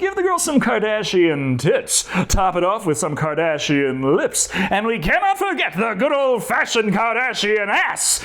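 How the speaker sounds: high, gleeful Irish leprechaun taunt, building to a shout. Pretend. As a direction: gloat like a mischievous leprechaun, rising to a yell at the end. Narrator mimics the leprechaun gloating.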